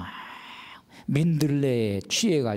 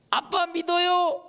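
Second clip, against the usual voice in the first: put-on high, slow little child; child's voice; slower than usual. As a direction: tell daddy you trust him like a small kid. Child's faith prayer. (아빠를 믿는 아이가 느리고 높게)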